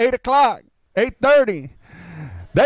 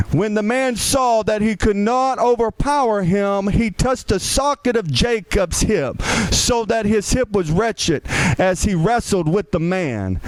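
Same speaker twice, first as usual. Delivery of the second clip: lower, measured Bible reading voice; scripture reading; 4 semitones lower than usual. Acted. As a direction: read the passage with weight. Reads scripture aloud.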